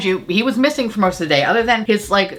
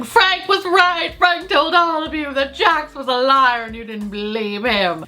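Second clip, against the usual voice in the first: half-hearted imitation of a tearful yell; mock yell; 5 semitones higher than usual. Stassi yelling at the staff, a mild mock yell. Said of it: "she just keeps yelling".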